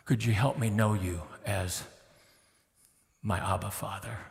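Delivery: soft, low whispered plea; hushed prayer. Acted. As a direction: barely breathe the prayer.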